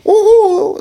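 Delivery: high-pitched drawn-out "ooh"; mimicked jeering ooh. Onlookers pointing at his ears, mimicked high ooh.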